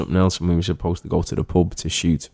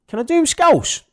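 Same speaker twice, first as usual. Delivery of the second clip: eager ask; 5 dB louder than usual. Retold or imitated. Asking producers in retold story.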